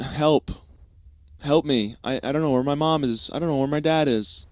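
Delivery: put-on high, loud panicked kid; mock crying plea. Lost kid begging random strangers, mock crying panic. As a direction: imitate a lost child begging for help. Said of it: "started crying, started going up to random strangers".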